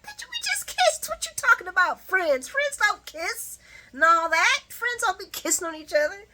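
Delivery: indignant Christina. Retold or imitated. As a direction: protest loudly at being called just a friend. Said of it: "Christina's like".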